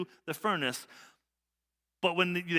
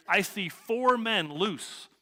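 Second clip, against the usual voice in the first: slow amazed; 4 semitones higher, much slower than usual. Retold or imitated. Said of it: "he answered".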